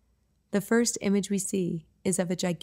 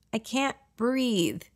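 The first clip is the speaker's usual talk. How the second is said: laughing; 4 semitones higher, much slower than usual. Acted.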